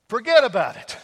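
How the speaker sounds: loud, hammed-up New York accent. Pastor having another go after failing, loud mock New York accent. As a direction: punch it out like an amateur New Yorker. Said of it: "I can't do a New York accent".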